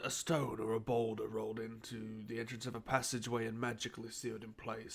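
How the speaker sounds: hushed whisper. Real, not acted. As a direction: say it under your breath. Whispered description of the cave.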